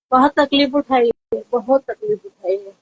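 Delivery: real tearful voice, words trailing away; choked up, repeating it through tears; close to tears. Real, not acted. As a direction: say it on the verge of crying. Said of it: "आप रोना मत".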